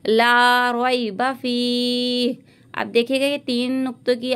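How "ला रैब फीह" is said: very slow recitation; tajweed recitation. Shown as a demonstration. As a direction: recite ला रैब फीह slowly and evenly. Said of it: "ता को हल्का सा खींचेंगे". (धीमी तजवीद तिलावत)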